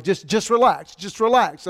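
hurried, repeated urging with mild panic; mock freaking out. Medical staff telling the patient to relax, mildly panicked. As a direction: imitate flustered staff insisting on calm. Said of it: "start freaking out".

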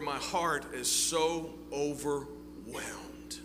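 slow, breathy prayer whisper. Pretend. Preacher voices David praying to the Lord, slow whisper. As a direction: whisper it like a confession to God.

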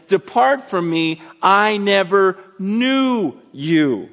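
slow, solemn "never knew you"; God's judgment. Retold or imitated. Preacher voicing God turning them away, slow and grave. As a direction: draw out the verdict, grave. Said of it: "what does God say to them".

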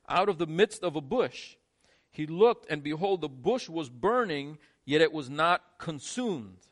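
measured, unhurried reading of the passage; scripture reading. Acted. Pastor reads the burning bush verses to the congregation, measured. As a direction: read it like the text itself is speaking.

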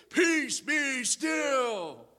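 high, far-carrying shouted command over the storm; thundering command. Retold or imitated. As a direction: proclaim it like a stage Jesus over the waves. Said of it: "with a thundering voice, screams above all".

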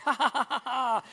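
laughing along for real, played up; genuine laugh. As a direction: act out a real laugh at the joke.

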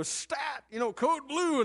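hammed-up TV emergency call; TV doctor urgency. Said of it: "they go".

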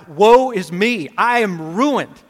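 cried out. Acted. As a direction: cry it out like a ruined prophet. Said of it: "he cried out".

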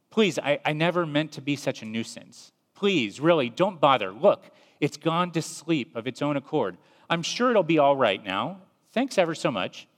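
an apologetic ghost fretting at the angel; pleading ghost. Acted. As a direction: talk him out of it nervously. Ghost begging angel not to.

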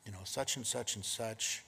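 lightly voiced gentle rebuke, hushed; gentle correction. To Bill, correcting him gently instead of shouting, soft and mild. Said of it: "you very gently say".

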